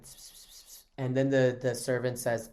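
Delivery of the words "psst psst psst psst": barely audible voiceless psst sounds; imitated whispering. Consort whispering to her servant, imitated whisper. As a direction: mimic secretive whispering, very softly. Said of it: "she, like, whispers".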